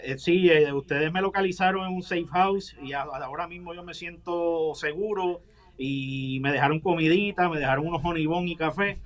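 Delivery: distorted low disguised voice; deep pitch shifted. Acted. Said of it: "la voz distorsionada".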